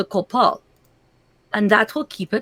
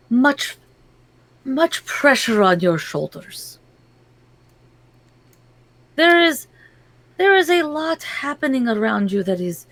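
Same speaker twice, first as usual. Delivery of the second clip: fortune teller; 3 semitones higher than usual. Acted. Fortune teller gives a reading.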